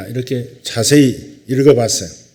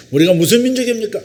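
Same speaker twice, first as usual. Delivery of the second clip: much higher, fast rallying question; wife asking playfully; 10 semitones higher, 4 dB louder, faster than usual. Retold or imitated. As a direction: fire the question at the crowd to get a chant back. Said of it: "다시 묻습니다".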